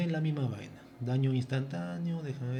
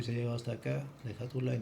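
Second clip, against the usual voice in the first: tired, worn-out voice; running out of voice after an hour; voice giving out; faster than usual. Real, not acted. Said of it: "Me quedo sin voz".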